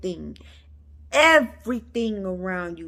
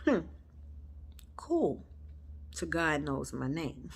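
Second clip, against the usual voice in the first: imitating son; 6 semitones lower, 11 dB quieter than usual. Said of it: "He said".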